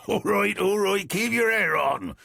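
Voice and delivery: chuckling as he speaks; laughing. Acted. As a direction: laugh the words out. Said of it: "Kobe laughed".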